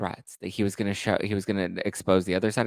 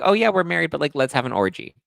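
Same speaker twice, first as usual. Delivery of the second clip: mock casual spouse; 6 semitones higher, 3 dB louder than usual. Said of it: "That's like being like".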